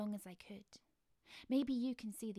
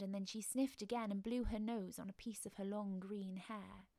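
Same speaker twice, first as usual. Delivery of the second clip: ordinary delivery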